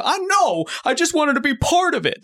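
heartfelt plea, pitched very high; Goofy. Retold or imitated. Goofy pleading with his son, imitated heartfelt outburst. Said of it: "pouring his heart out".

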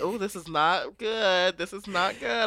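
hushed, worried muttering; hushed dismay. Retold or imitated. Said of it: "it's like".

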